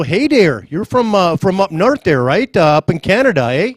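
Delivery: put-on a light Canadian accent, stretched eh at the end; mock Canadian accent. Interviewer teasing the Canadian-born draftee, in a mock Canadian accent. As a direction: tease him in a hammed-up Canadian accent. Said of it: "Did you like my accent?".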